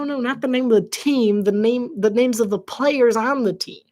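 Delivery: ordinary talk, nothing marked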